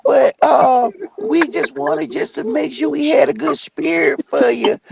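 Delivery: high, syrupy church lady voice; fake-friendly high pitch; mock churchy sweet voice. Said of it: "Oh, yeah".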